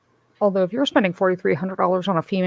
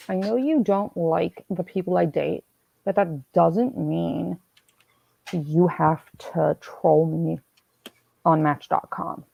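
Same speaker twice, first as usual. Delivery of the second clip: slow, measured mock scolding; deliberate, drawn-out reproach; retold annoyed brother; slower than usual. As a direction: spell out the complaint slowly, word by word. Retold brother's annoyed accusation by phone.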